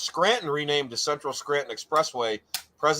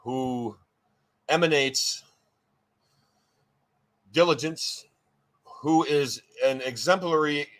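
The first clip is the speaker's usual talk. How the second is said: slow, drawn-out formal emcee build-up; measured ceremonial tribute with long pauses; grand introduction; slower than usual. Acted. Host hyping a radio guest, grand introduction.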